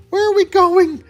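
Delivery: high, loud question from a runner; panting. A narrator's reading. Fleeing hero asks his partner where to go, high panting. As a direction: Tails panting it out as he runs.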